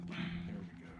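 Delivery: low, hushed reassurance; soft calming. Real, not acted. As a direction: settle the horse with a quiet murmur. Calming horse after adjustment.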